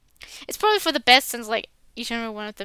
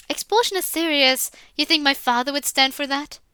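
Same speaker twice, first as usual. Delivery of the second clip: indignant; 2 semitones higher, 4 dB louder than usual. Acted. Indignant protest to headmaster.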